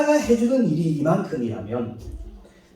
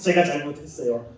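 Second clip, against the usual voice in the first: contrite son; 4 semitones lower than usual. Retold or imitated. Son apologizing to his father after the deed, contrite. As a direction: mumble it sheepishly. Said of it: "하면서".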